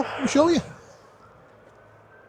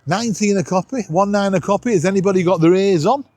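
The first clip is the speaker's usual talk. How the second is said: CB radio call-out. Real, not acted. Vlogger calling out over the CB for anyone listening, radio call-out voice. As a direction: hail anyone listening on channel nineteen. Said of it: "I'm gonna shout out for somebody".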